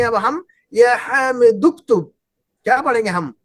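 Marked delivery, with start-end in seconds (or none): 0.7-2.1 slow "या हामिदुक्तुब" with the hamza of "उक्तुब" silent, joined straight to "हामिदु"; slow linked reading demo. Shown as a demonstration. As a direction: read "या हामिदुक्तुब" slowly as one joined word. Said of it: "मसलन हम इसको पढ़ेंगे". ("या हामिदुक्तुब" धीरे से, हमज़ा की आवाज़ गायब करके)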